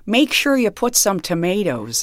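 lightly voiced stock old lady, slow; a hint of granny, drawn out. Shown as a demonstration. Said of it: "Can you give us a taste of them?".

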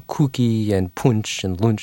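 lightly imitated Liverpool accent; a hint of mother's Liverpudlian vowels. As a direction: give the words a light Liverpudlian sound. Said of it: "had this Liverpudlian accent".

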